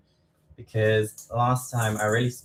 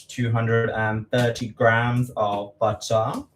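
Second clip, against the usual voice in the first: slow, drawn-out weight with a lift at the end; odd way of saying it; slower than usual. Real, not acted. Reading the recipe amount to viewers, slow and drawn out. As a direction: spell out the amount slowly for the viewers. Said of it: "I don't know why I have to say it like that".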